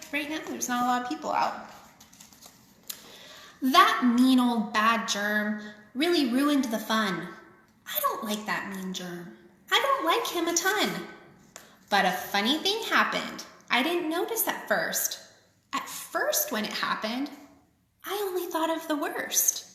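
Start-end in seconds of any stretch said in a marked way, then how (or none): 3.6-10.9 playful grumbling at a bad guy; teasing child-like dislike of the germ; mock disapproval. Aside mocking the germ for kids. 11.9-19.7 sing-song picture book reading; lilting read-aloud for kids; story reading. A narrator's reading. Reads rhyming picture book aloud.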